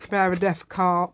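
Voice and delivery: loud drawled southern US accent; a Virginia southern accent, said with gusto. Shown as a demonstration. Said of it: "I was even doing a beautiful southern state accent".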